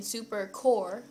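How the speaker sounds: "Supercor" with a plain English R; unrolled R. Shown as a demonstration. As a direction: say "Supercor" without rolling the R.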